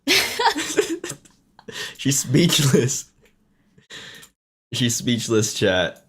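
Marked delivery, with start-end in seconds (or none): 2.0-3.1 slow, drawn-out teasing declaration; a hammed-up slow reveal; mock dramatic announcement. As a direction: stretch it out like breaking news. Teasing sister after clip.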